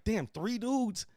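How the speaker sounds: mocking taunt. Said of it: "I'm like".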